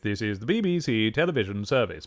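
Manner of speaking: lightly imitated old BBC announcer accent; station ident in a dated BBC accent; outdated BBC accent. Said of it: "that was already an outdated accent".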